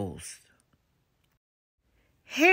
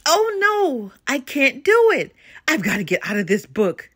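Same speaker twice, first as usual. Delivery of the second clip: panicked; 3 semitones higher than usual. Acted. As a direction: blurt it in a rising panic. Papa Bear panics with page fright.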